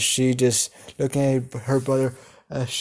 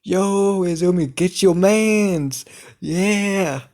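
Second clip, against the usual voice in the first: shouting teasingly; 6 semitones higher, slower than usual. Acted. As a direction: egg her on across the room. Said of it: "the girls ... are shouting".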